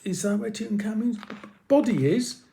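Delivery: nervous whisper. Acted. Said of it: "Nima whispered nervously".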